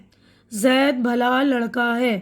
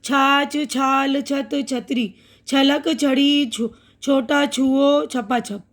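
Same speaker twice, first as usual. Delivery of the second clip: slow and careful; slower than usual. Shown as a demonstration. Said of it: "अब यहाँ छ की आवाज़".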